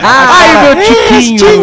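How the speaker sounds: high squeaky mock pity; squeaky teasing voice. Teasing a friend.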